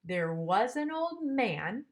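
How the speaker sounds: "man" stressed at the end of the phrase. Shown as a demonstration. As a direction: read the verse with weight on "was" and "man". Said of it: "man is gonna be stressed".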